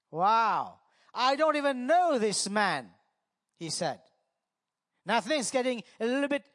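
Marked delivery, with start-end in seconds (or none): 1.1-2.9 stamp the denial as Peter swearing; emphatic denial. Acted. Preacher replays Peter's oath.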